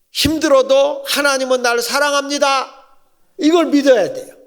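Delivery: 힘들어도 lifted and driven home; preaching at full force. Real, not acted. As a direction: proclaim it over the church. Preacher builds to a climax.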